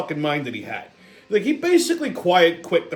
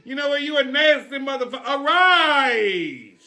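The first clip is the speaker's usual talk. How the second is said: put-on angry old man; 7 semitones higher than usual. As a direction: bark insults at a rival. Angry character in sketch quarrel.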